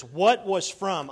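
slow, loud reading with weight on "from"; "What was from" read slowly, leaning on "from"; stress on from. Shown as a demonstration. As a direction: lean on "from" so they underline it. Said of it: "underline the word from".

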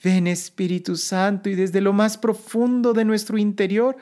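earnest, rising litany prayer; prayerful invocation. Acted. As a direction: plead gently, building with each call.

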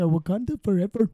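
attempted Black Panther voice drifting into Indian; mild muddled Indian-sounding accent; botched Black Panther accent. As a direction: try an African accent and land on Indian. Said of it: "Uh, that was Indian".

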